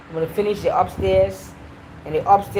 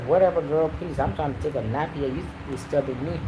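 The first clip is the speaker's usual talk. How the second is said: imitated dismissal; 5 semitones lower, 4 dB quieter than usual. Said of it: "You're just like".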